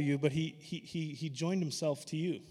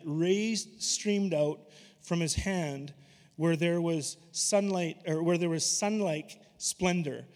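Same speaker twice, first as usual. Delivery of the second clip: scripture reading. Acted. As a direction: paint God's majesty word by word.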